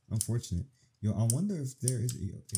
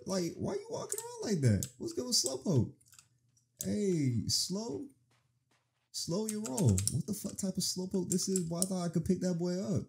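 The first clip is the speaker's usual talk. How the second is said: much higher, incredulous mocking talk to a Pokemon; 8 semitones higher than usual. Real, not acted. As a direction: squeak at the slowpoke in disbelief. Mocking a slow Slowpoke.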